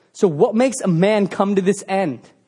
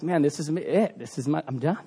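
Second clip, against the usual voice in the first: despairing; 4 semitones lower, 7 dB quieter than usual. Retold or imitated. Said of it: "He's probably just like".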